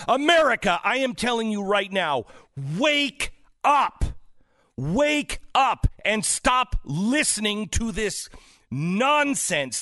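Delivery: real exasperated yelling, pitched high. Real, not acted. Talk host yelling at America to wake up, exasperated yelling. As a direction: yell it out at the whole country, emphatic. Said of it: "I'm yelling at everyone else".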